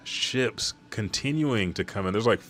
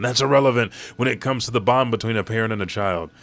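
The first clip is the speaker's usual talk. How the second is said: louder, fast insistent yell; 4 semitones higher, 4 dB louder, faster than usual. Retold or imitated. Brook yells at Shuri about family bonds. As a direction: hammer home the parent-child bond. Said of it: "Brook starts to yell again".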